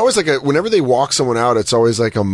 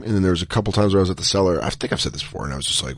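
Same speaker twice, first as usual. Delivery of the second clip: usual speaking voice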